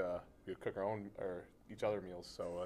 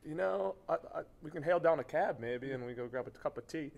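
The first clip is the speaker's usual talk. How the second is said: a shaky go at a British accent, pitched higher and louder; attempted British accent; 8 semitones higher, 5 dB louder than usual. Shown as a demonstration. Asked on the show for a British accent, a bad one. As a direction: put on a British accent, badly, half-laughing. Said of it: "Can you give us your best British accent?".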